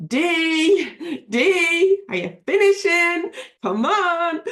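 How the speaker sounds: husband nagging her to finish up; husband calling her. Retold or imitated. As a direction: call her away from the desk.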